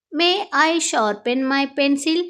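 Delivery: very slow, clear classroom English; slow model phrase. Shown as a demonstration. Teacher modelling the phrase for Telugu students, slow and clear. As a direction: spell it out slowly for learners. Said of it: "అప్పుడు ఇలా అడుగుతా".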